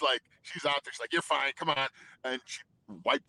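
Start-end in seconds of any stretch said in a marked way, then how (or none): 1.1-1.9 imitating wife. Voicing tough wife.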